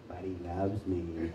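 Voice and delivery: slow Southern-accent imitation; imitated Southern woman. Preacher imitating a Southern woman on speakerphone, slow. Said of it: "she kept saying that".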